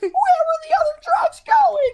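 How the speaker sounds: exaggerated masked-vigilante voice, slow and strained; Batman. Retelling a comedy skit about workshopping the voice, hammed-up Batman voice. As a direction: drag it out in a hammed-up superhero voice. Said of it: "pretends to be Batman workshopping his voice".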